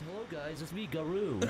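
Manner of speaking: whispered, mock new character greeting; whispered hammed-up replacement hello; whispered mock intro. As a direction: breathe it like a sneaky swap. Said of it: "just replace him and act".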